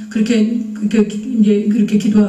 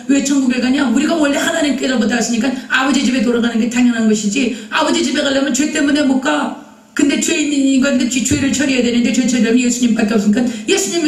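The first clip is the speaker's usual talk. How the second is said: insistent, slightly raised arguing; re-enacted heated exhortation. Evangelizing someone who will not understand, heated and insistent. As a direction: press each point without letting up. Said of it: "열받는 거예요".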